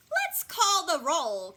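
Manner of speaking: high, loud, slow cackly teacher; drawn-out monster-teacher announcement; cackling. A narrator's reading. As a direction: cackle it out with relish. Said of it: "cackles Missus Green".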